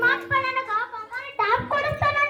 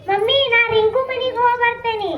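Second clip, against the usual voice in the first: louder call to mother in another room; 6 dB louder than usual. Acted. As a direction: call out so mom hears. Calling out to mother. (ಅಮ್ಮನಿಗೆ ಜೋರಾಗಿ ಕೂಗು)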